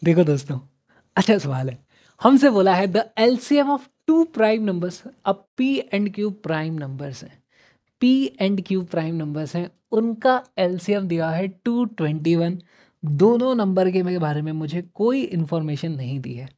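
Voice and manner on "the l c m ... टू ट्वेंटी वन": "For any two prime numbers P and Q" को बहुत धीमे, ज़ोर से, शब्द-शब्द पढ़ो; slow question reading. Shown as a demonstration. Reads question aloud slowly. (प्रश्न को धीरे-धीरे ज़ोर से पढ़ना)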